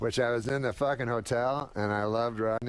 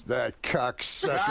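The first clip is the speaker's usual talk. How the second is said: mock outburst; slower than usual. Rodney hearing the director's name in the elevator, mock outburst. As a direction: spit it out at the name. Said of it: "He goes".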